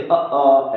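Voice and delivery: अ, अ pushed from the throat; throat stress demo. Shown as a demonstration. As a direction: press अ, अ from the throat. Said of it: "कंठ में जोर पड़ना चाहिए".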